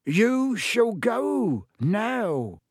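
high, very slow fierce command; fierce elf. A narrator's reading. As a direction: order him out, each word firm. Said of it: "he said fiercely".

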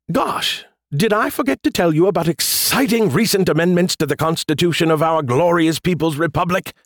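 high, falsely innocent voice; mock innocent. A narrator's reading. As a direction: play dumb, wide-eyed and high. Skippy fakes innocence.

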